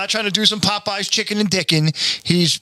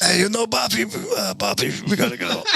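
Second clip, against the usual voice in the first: Carl voice; 3 semitones higher than usual. Retold or imitated. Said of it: "sounds like Carl from Aqua Teen".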